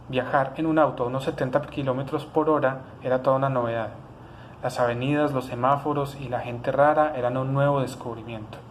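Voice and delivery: even, measured read from a novel; reading aloud. Real, not acted. Author reads a novel fragment to viewers, even literary reading. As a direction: read your own prose aloud, evenly.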